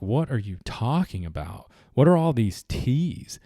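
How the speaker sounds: rising, baffled disbelief, a touch put-on; exasperated Southerner facing forty-two teas, incredulous. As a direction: ask it like the menu makes no sense. Baffled by a tea menu.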